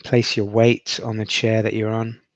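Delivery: steady, unhurried meditation guide; guided meditation. Acted. Guide helping listeners rest in awareness, in an even meditation voice. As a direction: let each instruction settle with long silences.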